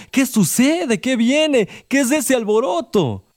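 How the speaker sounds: high, urgent questions from a blind beggar; anxious blind man calling. A narrator's reading. Blind beggar calling out anxiously to the crowd. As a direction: call out, straining to hear the crowd. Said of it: "Y Bartimeo gritó".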